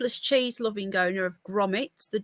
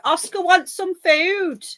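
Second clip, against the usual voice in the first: put-on higher, slow, sing-song kid voice; child's bossy voice; 7 semitones higher, 5 dB louder, slower than usual. Vlogger imitating Dandelion telling Oscar, sing-song kid voice. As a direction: copy the little one instructing. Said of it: "Dandelion's there telling Oscar".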